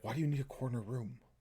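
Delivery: very hushed, muttered under the breath. Questioning a party member with a side eye: muttering under breath. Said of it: "under my breath be like".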